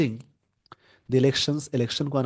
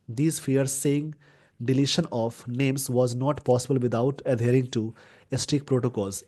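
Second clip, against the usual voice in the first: slow, careful reading of an English news line; deliberate classroom news reading; much slower than usual. Shown as a demonstration. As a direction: read it out word by word for the class. Reading newspaper sentence aloud.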